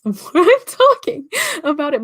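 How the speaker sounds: laughing, Canadian accent creeping in. Real, not acted. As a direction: chuckle through a thick Canadian accent. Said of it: "it's getting worse".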